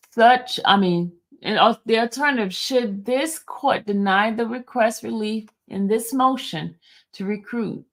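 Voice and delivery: measured, formal reading of a court motion; formal document reading. Acted. Streamer reads the recusal motion to viewers, formally. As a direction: read it out like a clerk in court.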